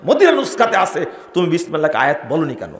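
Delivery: ordinary talk, nothing marked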